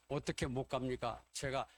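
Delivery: mildly spirited imitation of a brash pledge; imitated boastful promise, lightly emphatic; bold retold vow. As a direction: quote it with a touch of bravado, punching the vow. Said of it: "호기 있게 그렇게 이야기를 합니다".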